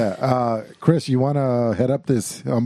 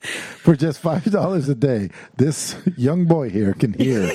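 slow, earnest mock charity appeal; charity ad parody; slower than usual. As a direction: plead like a late-night donation ad.

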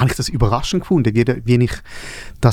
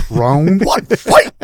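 loud arcade announcer shouting fight; booming fighting game announcer; 5 semitones higher, 4 dB louder, much slower than usual. Pretend. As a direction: call the round start like an arcade game. Mock fighting game round start.

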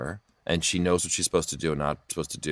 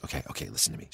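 conspiratorial whisper to sister; quiet whisper; 8 semitones lower, 12 dB quieter, faster than usual. Retold or imitated. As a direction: lean in and whisper the secret. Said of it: "quietly, as if I couldn't hear".

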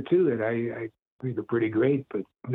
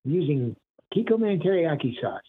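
Kikkoman character voice; 4 semitones higher than usual. Retold or imitated. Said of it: "he would say".

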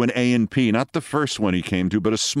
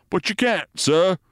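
high, anxious sergeant protesting; 9 semitones higher than usual. A narrator's reading. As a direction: plead with your captain, high and worried. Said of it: "said the sergeant anxiously".

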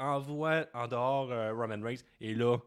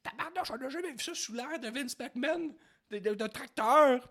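mock amazement; 13 semitones higher than usual. His own amazed reaction.

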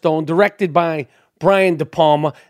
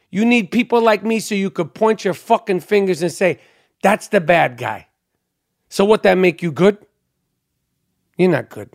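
lightly voiced movie quote; 2 semitones lower than usual. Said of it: "I'm gonna say this in my accent".

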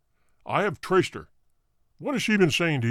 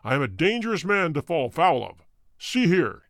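menacing threat. A narrator's reading. Roylott warns Holmes off his affairs, menacing. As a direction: warn him like a dangerous man.

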